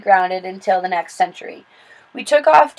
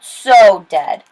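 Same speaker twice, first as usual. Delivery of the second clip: louder snarl; 8 dB louder than usual. Acted. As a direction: spit it out as a threat. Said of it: "Jasper Junior snarled".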